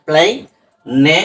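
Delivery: "প্লাই-, নে" in two separate syllables, British style; British pronunciation. Shown as a demonstration. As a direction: sound out "প্লাই-" then "নে", British way. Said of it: "British অ্যাকসেন্টে এটা". ("প্লাই-, নে" British উচ্চারণে, আলাদা আলাদা করে)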